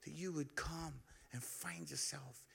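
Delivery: tender appeal. Real, not acted. Tender altar call.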